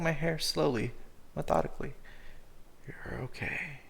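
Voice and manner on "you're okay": soft whispered comfort. Acted. Cooper hushing scared Cyrus, whispered soothing. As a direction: whisper it gently, almost no voice.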